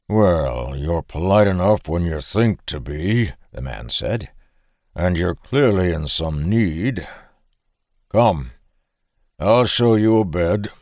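gruff but kind Frisian farmer; grudging welcome; lightly voiced farmer. Farmer offers the tired stranger a bed, lightly gruff.

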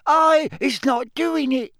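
high squeaky elf squeal; terrified elf squeal. Acted. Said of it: "she squealed".

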